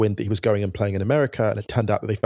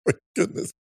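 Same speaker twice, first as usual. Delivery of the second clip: high, louder laughing disbelief; higher, amused exclamations; 8 semitones higher, 5 dB louder than usual. Real, not acted. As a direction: marvel at the silliness through laughter. Reacting to mustache letter.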